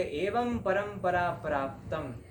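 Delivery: slow, drawn-out verse quotation; scripture recitation. Acted. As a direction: recite it slowly like a sacred verse. Quotes Gita verse aloud.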